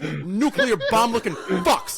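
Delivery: heated, drawn-out insult; mad. Real, not acted. Insulting his debate opponent, mad. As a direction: hurl the insult in real anger. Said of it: "I am mad".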